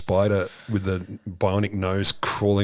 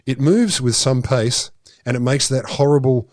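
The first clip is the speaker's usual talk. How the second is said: quoting director. Retold or imitated. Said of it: "this is his, his quote".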